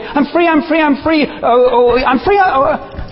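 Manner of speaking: high, hollow sing-song "I'm free"; mock cry of freedom. Preacher mocking a churchgoer crying I'm free. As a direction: parody a weak, hollow claim of freedom.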